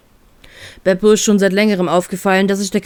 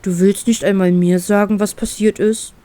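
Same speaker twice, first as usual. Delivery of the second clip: mildly hurt and taken aback; surprised, disappointed. Acted. Bear is shut out by his best friend, a touch disappointed. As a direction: ask with understated disappointment. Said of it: "etwas überrascht und enttäuscht nach".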